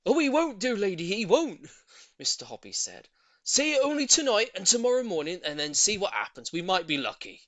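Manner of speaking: loud, hearty reassurance; calm her fears heartily; reassuring old man. A narrator's reading. Voices Mister Hoppy.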